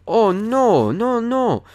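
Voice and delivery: high-pitched mock denial, stretched-out no's; impression of older man. Accused gym member denying it to staff, high-pitched impression. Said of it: "do my best impression of him".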